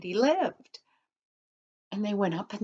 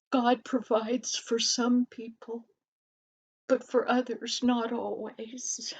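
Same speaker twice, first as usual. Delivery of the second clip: discouraged; 2 semitones higher than usual. Acted. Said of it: "Because he was discouraged".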